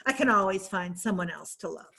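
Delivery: quick, breezy, laughing. Acted. Shrugging off love to her friends, quick and laughing. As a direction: toss it away with a laugh.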